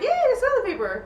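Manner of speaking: high, singsong little cheer; mock delight. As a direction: celebrate a tiny victory. Acting out relief at finding paper.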